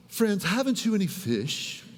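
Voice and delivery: lightly posh, prim mock voice; a hint of stiff old English; overly proper. Preacher mocking Bible language to his congregation, prim. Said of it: "makes Jesus sound so proper".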